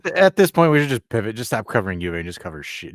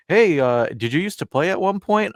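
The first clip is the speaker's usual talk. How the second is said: other player asking; 10 semitones higher, 7 dB louder than usual. Retold or imitated. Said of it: "some of the guys are like".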